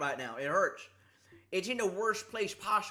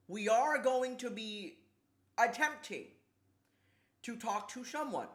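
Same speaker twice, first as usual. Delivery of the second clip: grand announcement; 4 semitones higher than usual. Pretend. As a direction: announce it in spaced-out, deliberate chunks. Mock announcement, then repeated quickly.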